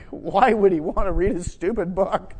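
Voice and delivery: laughing self-mockery. Mocking his own past thought.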